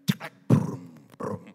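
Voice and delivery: deep loud engine rumble on brum; low booming motor noise; imitated car engine. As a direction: rev it like a paid-off Panther starting up. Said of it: "biar Panther bunyinya".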